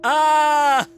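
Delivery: high, loud, slow amazed outcry; real stunned exclamation; shocked disbelief. Real, not acted. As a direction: cry out in delighted disbelief. Reacts to cutscene twist.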